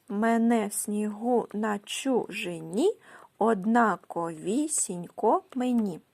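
slow, measured verse with drawn-out stresses; scansion reading. Shown as a demonstration. Teacher scanning a poem's metre for pupils, slow measured recitation. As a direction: stretch the poem out syllable by syllable to show its metre. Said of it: "Ось така схема у вас має бути".

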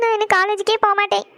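sobbing declaration; crying. Acted. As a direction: sob first, then wail it tearfully. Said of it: "எதுக்கு அழுதுட்டு இருக்கேன்னு". (விம்மி அழுதபடி)

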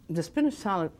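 words muffled by a mouthful of food; talking with mouth full. Real, not acted. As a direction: chew and talk through a full mouth. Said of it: "talk with your mouth full".

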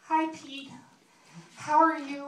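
high-pitched, put-on weepy voice; mock crying girlfriend. Jilted one-night stand on video, mock crying. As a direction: squeak it out as if tearful. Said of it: "pretty much my, my crying. And she's like".

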